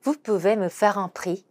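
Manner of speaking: very slow, "vous" stressed; slow model sentence; slow repeat. Shown as a demonstration. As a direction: repeat slowly. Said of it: "한 번 더".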